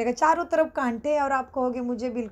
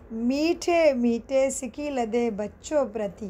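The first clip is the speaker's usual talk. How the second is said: measured, drawn-out devotional greeting; ceremonial salutation. Acted. Teacher reciting the closing greeting to the class, ceremonial. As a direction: recite it as a formal blessing.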